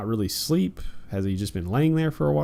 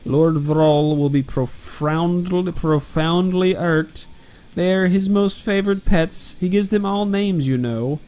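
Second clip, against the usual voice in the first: hammy villain; 4 semitones higher, 5 dB louder than usual. Acted. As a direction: drag it out like a pompous demon. Reading villain lines hammily.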